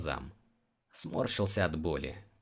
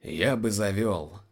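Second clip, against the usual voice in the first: dejected; 2 semitones higher, 4 dB louder, slower than usual. Acted. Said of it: "уныло кивнул Биргас".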